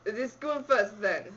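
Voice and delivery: put-on slow, meerkat-style Russian accent; drawn-out attempt at a Russian accent. Reader thinking of meerkats to find a Russian accent. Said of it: "Compare the meerkats".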